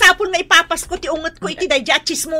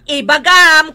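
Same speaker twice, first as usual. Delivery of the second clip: angry demand; 7 dB louder, slower than usual. Acted. Mother demanding an answer.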